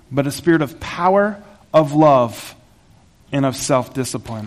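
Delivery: slow, measured reading of scripture. Acted. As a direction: read the passage with reverence. Reads scripture passage.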